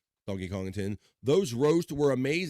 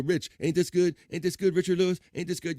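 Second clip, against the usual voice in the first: a lightly voiced comedian, higher and louder, fishing for praise; mock pestering comic; 6 semitones higher, 4 dB louder than usual. Comic nagging Richard Lewis about his joke, mildly mocked. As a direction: needle Richard Lewis for a compliment. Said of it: "That's what you say when".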